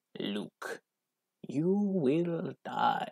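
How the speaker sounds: slow, drawn-out, high, menacing villain voice. Playing against an opponent, the speaker acts out the Emperor's lightning line: menacing Emperor voice. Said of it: "this is the Emperor with his lightning".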